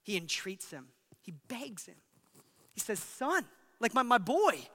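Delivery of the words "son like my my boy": higher, heartfelt address to a son; affectionate father. Acted. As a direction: plead as a loving father, a touch of affection. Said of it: "there's affection in that".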